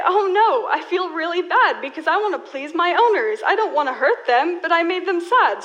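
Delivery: light high-pitched voice of a guilty puppy; sad puppy voice. Pretend. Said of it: "and they say".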